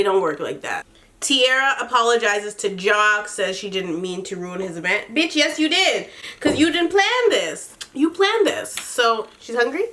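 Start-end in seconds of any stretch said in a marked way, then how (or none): 5.1-8.7 higher, laughing call-out; laughing retort. Real, not acted. Recapping the show, she laughs calling out Tierra's fake apology. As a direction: laugh while calling her out.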